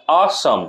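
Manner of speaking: "a sum" in two beats, stress on sum; light a, then lean on sum; teacher marking out "a sum" as an iamb; iambic stress demo. Shown as a demonstration. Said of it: "জোর দিতে হচ্ছে সামে".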